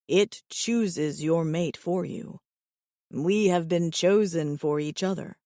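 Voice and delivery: slow, low and grave. Acted. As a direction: drop to a grave note. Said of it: "his voice drops to a grave note".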